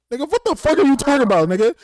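fast, high, shouted comeback; fighting mad retort. Retold or imitated. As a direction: blow up at a friend, hammed up. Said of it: "that makes me wanna fight".

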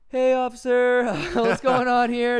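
high, loud, fake-friendly hey officer; sing-song overly friendly greeting; mock polite cop greeting. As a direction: play it innocent and chirpy to the cop. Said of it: "I think I can talk him down".

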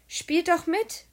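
high, loud invitation to join in; calling out. A narrator's reading. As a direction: call across to the others. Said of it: "rief Pekka uns zu".

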